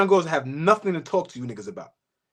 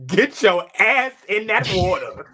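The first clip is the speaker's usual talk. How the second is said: laughing. Real, not acted. Mocking the quote, laughing.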